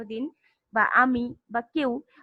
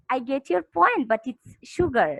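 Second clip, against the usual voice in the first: correcting teacher; much slower than usual. Retold or imitated. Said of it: "ঠিক করে দেই যে".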